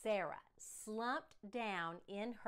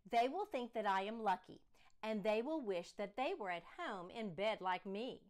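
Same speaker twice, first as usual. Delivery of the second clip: put-on sassy child; 4 dB louder than usual. Child sassing father.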